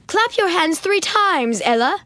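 high, slow, imperious order; commanding. A narrator's reading. Stepmother testing Ella's obedience, slow and imperious. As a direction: spell out the command like a test. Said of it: "Mum Olga commanded".

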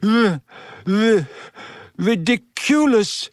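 high, halting squeak; Neville. A narrator's reading. Neville facing Snape bearing down, high squeak. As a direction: squeak it out, stumbling before the long final word. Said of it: "squeaked Neville".

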